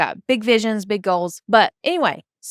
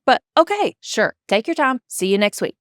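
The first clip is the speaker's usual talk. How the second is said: sarcastic okay. Retold or imitated. Grudging ok to assistant's break.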